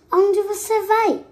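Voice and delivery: high, sweet-talking fox; gentle fox voice. Acted. Sly fox sweetly asks the mouse where he's going, high and coaxing. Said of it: "com brandura".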